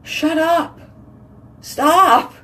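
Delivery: high, urgent mock pleading; imitated inner voice. Her head begging her mouth to be nice, mock pleading. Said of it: "my head is like".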